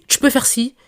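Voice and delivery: a mock imitation of a little sister's injunctive tone; bossy commanding tone. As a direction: rattle off commands at someone you treat like a child. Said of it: "c'est injonctif".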